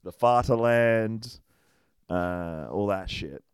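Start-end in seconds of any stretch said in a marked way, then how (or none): 0.0-1.4 put-on proud old grandpa voice.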